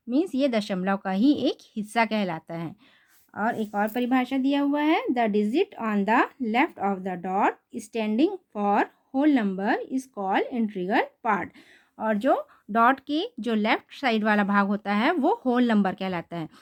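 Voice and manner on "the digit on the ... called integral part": very slow, word-by-word textbook reading; reading a definition. Shown as a demonstration. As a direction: read the definition out slowly for the class. Reads textbook definition aloud. (बहुत धीमे, शब्द-शब्द परिभाषा पढ़ना)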